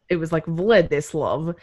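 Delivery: Vladislav said the Romanian way, Vlah-dee-slahv; careful Romanian Vladislav, open vowels; Romanian pronunciation. Shown as a demonstration. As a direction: Vladislav with a light Romanian touch. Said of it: "how to pronounce it in the correct, like, Romanian".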